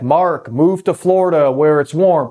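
a touch of a voice giving direct orders; God's audible voice. Acted. Preacher mimics an audible call from heaven, lightly voiced. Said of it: "like, audible voice".

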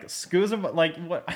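high, incredulous mock reaction; mock disbelief. Host acting out a baffled reaction to the scene, mock disbelief. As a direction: react like you can't believe your ears. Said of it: "I'm like".

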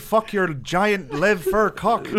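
high and loud, laughing through every word. Real, not acted. Teasing his friend about a made-up ex, laughing hard. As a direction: crack up while teasing your buddy.

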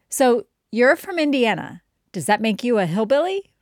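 a hint of a questioning schoolkid; quoted curious student. Pupil asks their American student teacher about home, lightly imitated curious kid. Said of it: "Here's some of their sayings".

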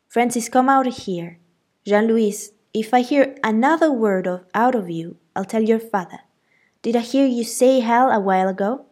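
loud, stern aunt's scolding. A narrator's reading. Aunt scolding both children, loud stern threat. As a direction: lay down the law, loud and stern.

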